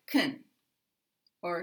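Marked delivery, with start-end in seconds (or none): 0.1-0.4 can reduced to kun, with a schwa. Shown as a demonstration. Teacher showing unstressed can in a sentence, reduced to kun. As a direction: weaken the vowel so can becomes kun. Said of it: "unstressed, will s-, sound like".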